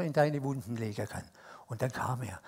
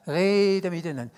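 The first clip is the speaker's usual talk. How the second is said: Swiss German; 3 dB louder than usual. Shown as a demonstration. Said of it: "Das kann ich auf Schweizerdeutsch sagen".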